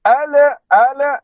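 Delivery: ala with a bounced le on the l; wrong bouncing l. Shown as a demonstration. Teacher demonstrates the wrong bouncing l. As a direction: show the mistaken echoing l. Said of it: "Le, le".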